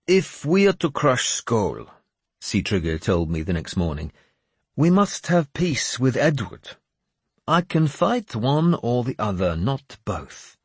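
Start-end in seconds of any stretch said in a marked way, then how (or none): 0.1-1.9 higher-pitched character voice; raised, intent dialogue voice; earnest warrior ally. Acted. 4.8-10.6 higher-pitched character voice; raised, intent dialogue voice; earnest warrior ally. Acted.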